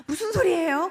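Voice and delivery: high, loud disbelief; incredulous question. Retold or imitated. Mother hearing the navel has gone in, loudly incredulous. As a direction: burst out as if it cannot be true.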